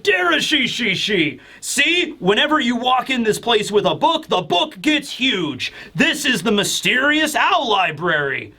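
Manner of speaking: playful mock-giant announcing his library; Saul impression. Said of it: "Saul walks in and he's like".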